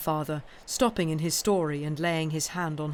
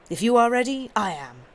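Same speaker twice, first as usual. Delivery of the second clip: keen and ready, a little higher and louder; eager; 5 semitones higher, 7 dB louder than usual. Acted. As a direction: bustle off to market. Miss Pross eager to go.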